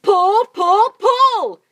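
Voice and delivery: very loud, high chant of pull; repeated yell. Acted. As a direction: drive them with each pull. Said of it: "yelled Mugglewump".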